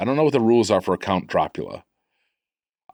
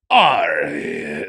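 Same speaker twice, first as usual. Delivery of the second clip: gruff pirate shout; 5 semitones lower than usual. Shown as a demonstration. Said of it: "I would just do more guttural".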